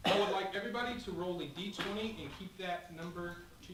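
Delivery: talking through laughter; giggling while giving instructions; laughing. Real, not acted.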